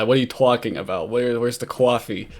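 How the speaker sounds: thick New York vowels in talking and coffee; lightly hammed-up New York accent. Shown as a demonstration. New Yorker showing his annoying accent, exaggerated New York vowels. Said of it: "I have a New York kind of accent".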